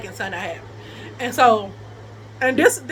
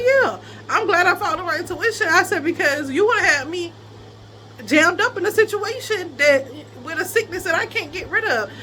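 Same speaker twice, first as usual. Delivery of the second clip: higher-pitched, emphatic comeback; vindicated reproach; 5 semitones higher than usual. Retold or imitated. Woman retelling her reproach to him over intuition, emphatic. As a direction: lay it on him with lifted voice.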